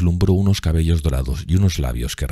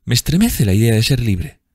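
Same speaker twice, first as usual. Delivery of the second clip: put-on higher, louder lovestruck girl; rapturous young woman; 8 semitones higher, 5 dB louder than usual. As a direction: thrill to it in a raised voice. Voices Sibyl in rapture. (muchacha embelesada, voz aguda y fuerte)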